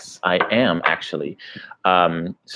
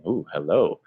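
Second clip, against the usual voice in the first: lowered OOH, HELLO rising at the end; intrigued hello demo; 3 semitones lower, 4 dB quieter than usual. Shown as a demonstration. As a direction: say OOH, HELLO low with an upward lilt. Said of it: "five different ways I can say hello".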